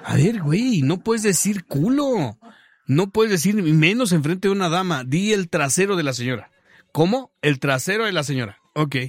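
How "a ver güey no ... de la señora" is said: a touch of a stern policeman; mild mock reprimand, pitch raised; correcting him like a fussy officer; scolding cop. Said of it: "policeman scolding".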